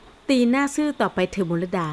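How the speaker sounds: slow bitter anger. Acted. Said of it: "บิดเบี้ยวด้วยความโกรธ".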